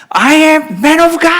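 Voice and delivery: high, drawn-out battle cry; very loud shout. Retold or imitated. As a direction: shout it boldly, stretching each word. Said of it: "소리를 아주 크게 지릅니다".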